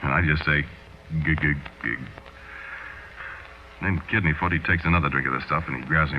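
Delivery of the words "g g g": stammering. Acted. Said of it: "I'm so surprised I can't move".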